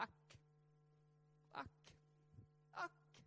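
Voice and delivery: a sighing, sinking ack, fading to breath; mock sigh ack. Preacher mocking the congregation's feeble ack. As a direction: let the ack droop away, half whispered. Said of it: "det enda vi har att säga".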